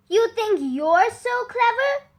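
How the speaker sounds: high, angry yell; angry villagers. Acted. Furious villagers scolding Sam, high mock scream. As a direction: snap at the boy. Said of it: "they all screamed at him".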